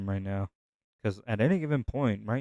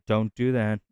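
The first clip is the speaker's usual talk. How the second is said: stern shout; 6 dB louder than usual. Retold or imitated. Dad scolding child in story.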